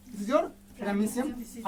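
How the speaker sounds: very slow, each word drawn out. Shown as a demonstration. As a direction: spell it out slowly for the kids.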